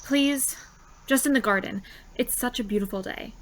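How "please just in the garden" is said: put-on high, pleading girl. Friend begs guardian for a picnic, high and pleading. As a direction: beg for permission, pitched high.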